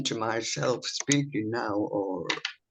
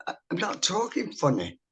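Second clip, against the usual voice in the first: higher-pitched Lancashire dialect; picked-up Lancashire dialect; 5 semitones higher than usual. Retold or imitated. Evacuee child answering mum, Lancashire dialect. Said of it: "must have picked up their dialect".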